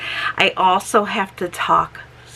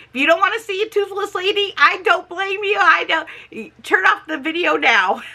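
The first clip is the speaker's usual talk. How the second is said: playful warning; 9 semitones higher than usual. Real, not acted. Playful warning before removing teeth.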